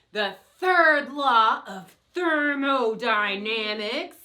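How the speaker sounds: lightly voiced monster. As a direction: growl it like a monster. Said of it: "do a monster voice".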